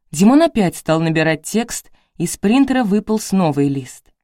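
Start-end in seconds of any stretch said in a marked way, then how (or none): none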